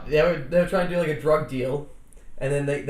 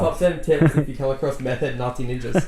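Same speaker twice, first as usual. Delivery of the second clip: clickbait video narrator. Acted.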